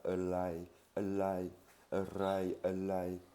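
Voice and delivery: the way many Thais say it. Shown as a demonstration. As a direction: say "a lie" with an L instead of the R. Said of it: "de Thaïs parlent comme ça".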